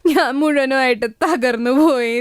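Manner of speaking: mildly tearful, despairing words of a new widow; tearful lament. Acted. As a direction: say തകർന്നു പോയി with a slight tearful break. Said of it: "ഏങ്ങി ഏങ്ങി കരഞ്ഞോണ്ടേയിരുന്നു".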